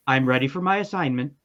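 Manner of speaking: level, unchanging robot announcement; robotic monotone. Acted. Robot calling out from its box, the same level tone every time. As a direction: repeat it flat like a recording on loop. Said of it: "Same intonation, no change".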